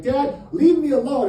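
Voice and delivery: high, loud yell at Dad; whiny kid shouting to be left alone; teen yell. Pretend. Yelling at dad.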